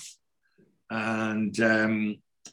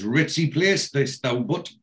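Geordie phrase; 2 semitones higher than usual. Retold or imitated. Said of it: "a proper Geordie ... Turner phrase".

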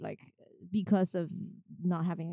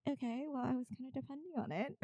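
disappointed okay; 6 semitones higher, 6 dB quieter, faster than usual. Retold or imitated. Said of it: "And I'm just like".

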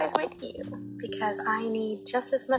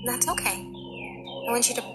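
guided meditation. Acted. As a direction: guide them gently into relaxation.

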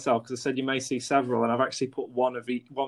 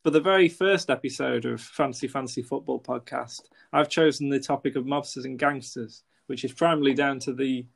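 scripted intro read. Acted.

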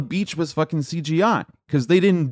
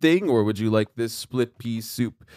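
charming waiter; 5 semitones lower, 3 dB quieter than usual. Retold or imitated. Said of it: "Stanley Tucci comes in and is like".

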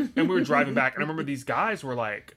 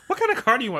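imitating mom; 11 semitones higher, 7 dB louder, much faster than usual. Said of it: "my mom was like".

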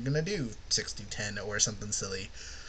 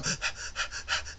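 demonstrated exaggerated gasps; mock gasping for air; gasp for breath; 6 dB quieter than usual. Shown as a demonstration. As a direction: suck in noisy breaths, over and over. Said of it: "That or I go".

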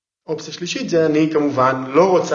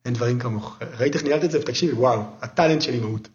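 sincere praise; 3 semitones lower, faster than usual. Retold or imitated. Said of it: "תעוף, לא ציני".

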